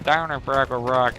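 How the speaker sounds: lightly imitated frog voice; a hint of a miserable puppet frog; froggy voice. Telling what scared them as a kid, lightly froggy voice. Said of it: "this frog's voice almost".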